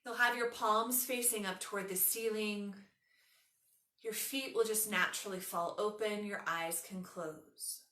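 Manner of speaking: unhurried yoga nidra guidance with long pauses; guided meditation. Acted. Leads a guided relaxation.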